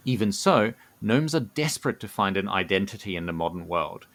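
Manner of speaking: measured storyteller's read with deliberate pauses; lore narration. A narrator's reading. Co-host presenting the gnomes' Dreaming Society, measured lore narration. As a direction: unveil the secret phrase by phrase.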